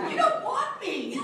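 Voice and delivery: high, slow, laughing protest. Retold or imitated. Telling casting they want someone else, laughing and high. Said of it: "I was like".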